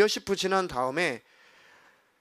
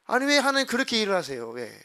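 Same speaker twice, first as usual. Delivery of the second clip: retold defiant protest, higher and quick; 대드는 말투; 4 semitones higher than usual. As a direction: push back at God in a raised, hurried pitch. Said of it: "대들고 기도한 적이". (높고 빠르게 따지기)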